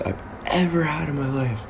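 drops to a breathy whisper mid-sentence. Real, not acted. Streamer confiding his anxiety to viewers, whispered. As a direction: let the words fall away into a whisper.

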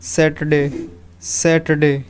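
सैटरडे said sat-ur-day, light middle; correct pronunciation. Shown as a demonstration. Teacher modelling the right sound for students. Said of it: "सैटरडे का सही pronunciation है".

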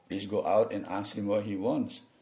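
the boss's order read slowly and word by word; slow learner's read. Shown as a demonstration. A teacher reading the boss's order slowly for the class. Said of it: "orang bule ngomong pakai bahasa".

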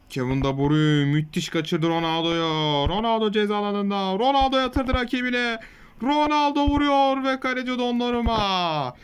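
steady match commentary voice; live play-by-play. Acted. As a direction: call the game like a TV commentator. Commentates his own match.

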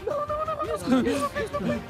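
laughing protest. Real, not acted. Tripped in game, laughing panic.

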